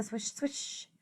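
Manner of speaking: whispered swish; soft whooshing whisper. Acted. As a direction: breathe out the swish sound.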